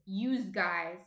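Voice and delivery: youse guys, New Jersey style; Jersey accent. Shown as a demonstration. Explaining what older people say, Jersey accent. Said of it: "a really Jersey thing to say".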